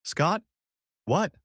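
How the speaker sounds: high, startled gasp of a question; startled wife caught at home. Acted. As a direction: caught off guard, voice jumps up.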